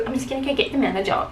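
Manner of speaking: quick, lightly huffy retort; retold stroppy exit line, rushed; stroppy beautician. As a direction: rattle it off in a mild mock strop. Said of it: "she storms out all stroppy".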